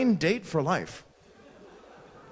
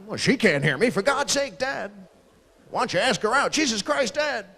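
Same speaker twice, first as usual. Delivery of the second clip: high, exasperated protest, rising as it goes; acted embarrassed son scolding his father; mortified exasperation; 5 semitones higher than usual. Mortified son scolding loud dad.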